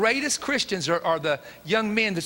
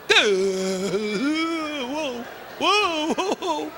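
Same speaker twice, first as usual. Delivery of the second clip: amazed whoa; 6 semitones higher, much slower than usual. Real, not acted. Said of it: "preacher's exclamation of shock".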